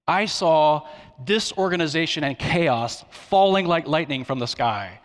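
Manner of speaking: lightly mock-grand announcement; a touch of mock prophecy; mock apocalyptic proclamation. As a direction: proclaim it with playful, slightly overblown weight. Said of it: "I don't talk like that".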